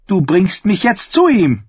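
high, imperious order; strict command tone. A narrator's reading. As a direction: demand it like a princess. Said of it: "in ihrem strengsten Befehlston". (strenger Befehlston)

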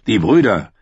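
firm royal ultimatum; stern king. Acted. King warns the brothers to elect, stern and firm. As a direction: lay down a threat with authority. Voices Stannis giving ultimatum.

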